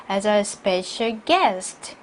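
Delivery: "guest" drawn out and falling; slow reading landing on "guest"; stress on guest. Shown as a demonstration. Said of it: "게스트에 강세 주시고요". ("guest"에 강세를 주어 천천히)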